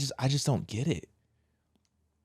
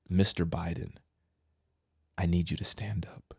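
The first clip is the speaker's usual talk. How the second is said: mock whisper; 5 semitones lower, 7 dB quieter than usual. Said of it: "She said".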